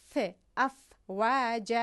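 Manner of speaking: drawn-out "افواج", holding the f; teeth-on-lip F. Shown as a demonstration. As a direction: clear f in "ف", then slow "افواج".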